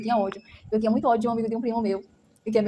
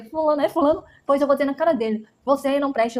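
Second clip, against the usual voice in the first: defiant retort; 3 semitones higher than usual. Retold or imitated. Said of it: "Minha mãe dizia".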